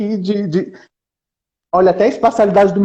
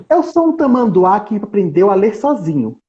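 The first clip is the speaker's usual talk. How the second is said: anteater voice; 2 semitones higher than usual. Acted. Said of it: "Eu mudei minha entonação porque a tipografia mudou".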